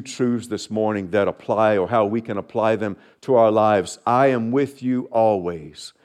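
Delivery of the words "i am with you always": slow, hushed promise; tender divine voice. Acted. Pastor voicing the Lord again.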